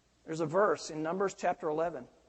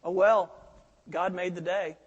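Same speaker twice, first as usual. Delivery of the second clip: nonchalant; 5 dB louder than usual. Retold or imitated. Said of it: "kind of nonchalantly".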